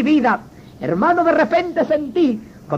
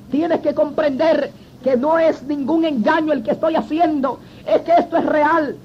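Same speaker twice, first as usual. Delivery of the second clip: laughing while insisting. Real, not acted. Insisting through tears to friend.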